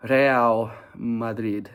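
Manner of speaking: put-on slow, grand Spanish-accented announcer build-up; mock Spanish accent, drawn out and grand. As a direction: roll it out like a Spanish commentator hyping Real Madrid. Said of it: "I said it in a Spanish accent".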